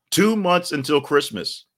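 high, loud and slow, like a ringmaster; big slow countdown call; slow announcer proclamation. Real, not acted. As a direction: draw out each word as a grand proclamation. Repeated countdown, slower.

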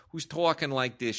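lightly imitated New York accent; a hint of mock New York accent; thick New York accent. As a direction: put on a touch of thick New York talk. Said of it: "really thick New York accent".

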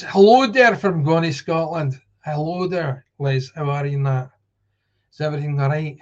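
terrible attempt at a Scottish accent; kiepski szkocki akcent. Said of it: "that's a terrible accent".

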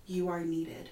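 whisper. Acted. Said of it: "you hear just a whisper in your ear".

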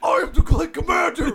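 grand villain announcement; villain takeover voice. Pretend. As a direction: declare it like a TV hijacker.

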